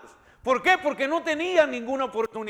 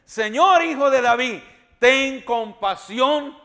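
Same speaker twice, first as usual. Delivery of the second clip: pleading cry; 4 dB louder, slower than usual. Acted. Blind men's plea acted out.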